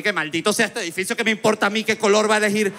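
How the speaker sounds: imitando una queja de borracho, tono agudo; despotrique borracho. Retold or imitated. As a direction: protesta indignada, actuada en broma. Reenacts own drunken rant. (despotricar como borracho indignado)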